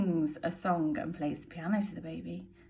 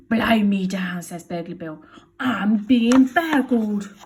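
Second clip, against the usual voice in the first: startled Bill; 9 dB louder, slower than usual. Acted. Bill surprised by burglar.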